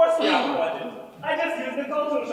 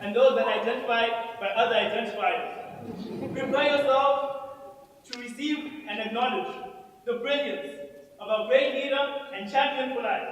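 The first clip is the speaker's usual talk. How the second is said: town crier. Acted. Herald announces the leader's entrance.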